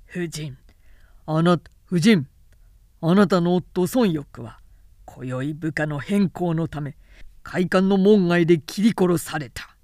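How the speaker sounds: smug general talking down to the widow; patronizing villain. Acted. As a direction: lay on the false kindness. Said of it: "恩着せがましくこう言って".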